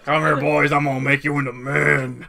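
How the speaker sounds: rally the recruits like a drill sergeant. Pretend. Quoting the Mulan captain to friends, a loud drill-sergeant bark.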